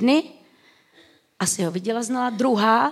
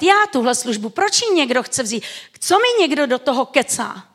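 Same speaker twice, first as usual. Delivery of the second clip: mock self-pity; 3 semitones higher, 4 dB louder than usual. Mock jealous churchgoer's complaint.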